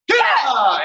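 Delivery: long, high, loud "yeah"; full-force martial-arts shout; big finishing yell. Shown as a demonstration. Instructor finishing the drill with students, full shout.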